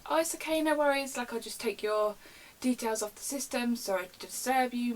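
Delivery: high, polite customer-service voice; smooth things over with an angry caller; imitated breezy, apologetic call handler; placating phone voice.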